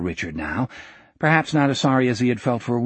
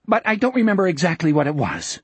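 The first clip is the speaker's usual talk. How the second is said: quick, higher, defensive; mildly sharp, hurried denial; added sharply; 4 semitones higher, faster than usual. Acted. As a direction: cut off any questions briskly. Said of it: "he added sharply".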